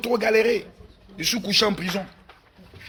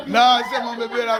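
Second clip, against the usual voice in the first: joyeux appel; 4 semitones higher than usual. Retold or imitated. Greeting his baby, laughing.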